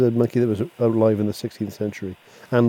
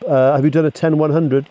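CB radio talk; 4 semitones higher, 7 dB louder than usual. Acted. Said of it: "what we call the ten code".

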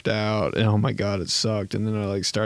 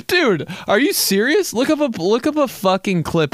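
amazed exclamation; 9 semitones higher than usual. Real, not acted. Comedian marveling at Gary Sheffield's batting stance. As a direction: blurt it in disbelief.

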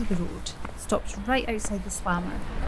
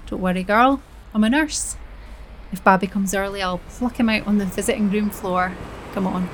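brassy reassurance; 4 dB louder than usual. Acted. Joan chats to pregnant girl.

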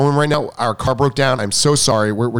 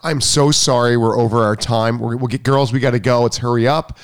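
polite apology; 3 semitones lower than usual. Shown as a demonstration. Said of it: "appropriate would be".

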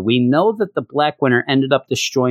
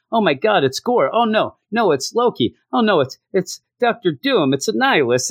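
mock panic; 7 semitones higher than usual. Acting out Thor's rising dismay at villains.

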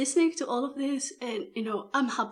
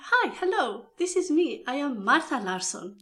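excited phone greeting; 5 semitones higher, 4 dB louder than usual. Retold or imitated. Boss's voice in a retold phone call.

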